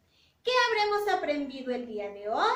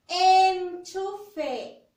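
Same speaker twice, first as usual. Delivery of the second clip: Enchufe said loud, with the E held; loud teacher model of Enchufe; emphasized model word; 2 semitones higher, 6 dB louder than usual. Shown as a demonstration. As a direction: make the child hear the E of Enchufe.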